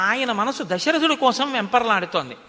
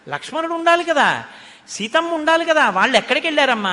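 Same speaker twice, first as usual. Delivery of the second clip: higher, louder, urgent pleading questions; agitated questioning; 6 semitones higher, 4 dB louder, faster than usual. Acted. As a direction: press mother anxiously for answers. Bharata's anxious questions acted. (కంగారుగా ఆత్రంగా అడగడం)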